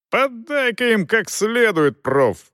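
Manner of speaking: high, slow cheering shout; excited shout. A narrator's reading. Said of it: "воскликнул кто-то".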